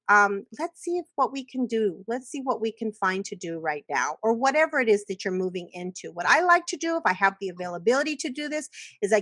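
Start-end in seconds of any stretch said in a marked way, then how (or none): 0.6-4.2 calm guiding. Shown as a demonstration. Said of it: "You just simply say".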